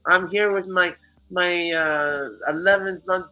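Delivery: high, whiny angry neighbor voice through the wall. Retold or imitated. Neighbor yelling through the wall at two am, mocked in a high whine. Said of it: "all of a sudden I hear".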